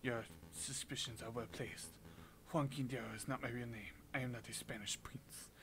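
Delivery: put-on subdued French-accented confession; measured French character voice; unmasked French prisoner.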